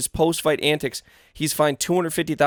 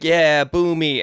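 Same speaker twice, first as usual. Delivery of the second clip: drawn out, louder taunt; slow taunting boo me; 2 semitones higher, 4 dB louder, much slower than usual. Retold or imitated. Fighter taunting the booing French crowd, slow and loud. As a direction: stretch it out daring the crowd. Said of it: "he's like".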